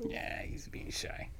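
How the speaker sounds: whispering. Real, not acted. Teasing aside about co-host.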